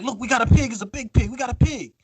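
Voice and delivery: high singsong imitation of thrilled castaways; put-on gleeful announcement; mock excitement. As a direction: celebrate the catch in a mocking high voice. Castaways thrilled at catching pig.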